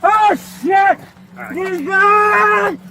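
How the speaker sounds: talking around keys in mouth; crying out with mouth full; key in teeth. Real, not acted. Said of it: "I got my keys in my mouth".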